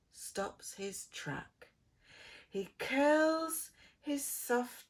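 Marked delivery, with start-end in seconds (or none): 0.1-1.7 slow unvoiced whisper. A narrator's reading. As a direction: whisper it as he falls asleep. Engine off, bedtime.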